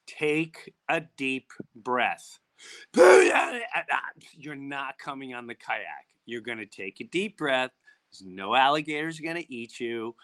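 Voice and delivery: slow, steady talking-down voice; calm reassurance. Retold or imitated. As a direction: coax a panicking sister to breathe, slowly. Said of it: "she talked the older one down".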